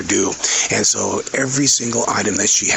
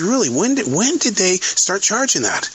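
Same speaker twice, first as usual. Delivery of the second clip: incredulous customer; 10 semitones higher than usual. Retold or imitated. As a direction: drag it out like an outraged shopper. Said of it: "And he goes".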